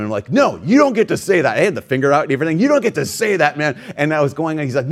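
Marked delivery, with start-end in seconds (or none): 0.3-1.6 raised, firm retelling of a rebuke; mock heated retort. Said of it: "I just unloaded on him". 2.6-3.8 raised, firm retelling of a rebuke; mock heated retort. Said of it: "I just unloaded on him".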